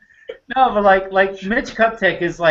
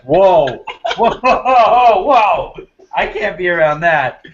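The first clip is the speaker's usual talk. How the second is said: mock recoil; 2 semitones higher, 5 dB louder, slower than usual. Recoiling guy exclaiming.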